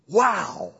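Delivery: bright amazed "Wow!"; wowed crowd. Retold or imitated. Preacher acting the astonished crowd. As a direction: gasp it like a stunned listener. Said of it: "they went".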